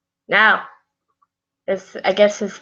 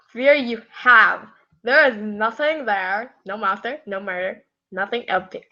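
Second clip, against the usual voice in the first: character voice. Acted. Jack reassures his boyfriend about the shower, character voice. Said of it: "Yes, I'm reading in that voice".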